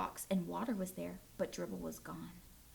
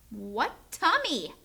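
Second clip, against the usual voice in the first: slow, louder demand; shouting; 4 dB louder, much slower than usual. Acted. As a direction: shout it slowly at the brother. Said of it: "I shouted at my brother".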